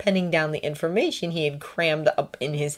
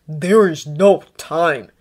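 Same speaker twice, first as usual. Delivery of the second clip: yell; 6 dB louder, much slower than usual. A narrator's reading. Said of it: "Harry yelled".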